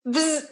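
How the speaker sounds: short buzzing zap noise; imitated electric zap. Woman recalling love at first sight as a lightning bolt, imitated zap. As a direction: buzz like a lightning strike.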